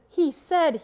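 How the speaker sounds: "he said" lifted high and loud as a pointed quote; stress on he said. Shown as a demonstration. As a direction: lecturer questioning the document's "he said", with pointed emphasis. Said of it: "it says".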